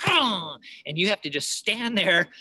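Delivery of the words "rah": loud growling bear roar. Retold or imitated. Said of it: "they'll come up and go".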